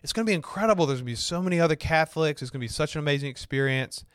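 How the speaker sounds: mildly hyped-up anticipation; retold excitement. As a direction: gush about what is coming.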